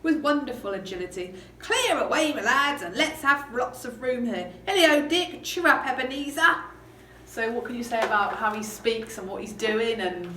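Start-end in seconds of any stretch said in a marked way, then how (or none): 1.6-6.5 lively, raised, jovial calling; energetic Fezziwig. Acted. Boss getting lads to clear the room, hearty cheer. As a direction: chivvy them along with cheerful energy. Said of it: "obviously a lot more energy".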